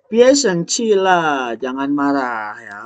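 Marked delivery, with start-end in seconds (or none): 0.1-1.5 mock soothing plea. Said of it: "dialog penuh drama ini".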